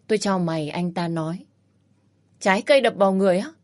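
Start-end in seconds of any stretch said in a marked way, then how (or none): 2.4-3.5 fast, louder disbelieving echo of his words; incredulous echo. Acted. Woman echoes the pervert's remark, fast and outraged. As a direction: spit his phrase back, outraged and quick.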